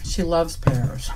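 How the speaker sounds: talking while chewing; mouth full. Real, not acted. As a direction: speak round a bite. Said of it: "My apologies for the chewing".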